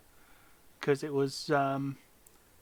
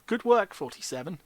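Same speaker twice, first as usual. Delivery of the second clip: flat, ironic "Good work"; deadpan fake compliment; dry praise; 4 semitones higher than usual. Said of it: "Hence my reaction".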